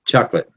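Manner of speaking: "Chocolate" said quickly as tchock-lit. Shown as a demonstration. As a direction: clip "Chocolate" to two fast syllables. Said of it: "you just say it fast".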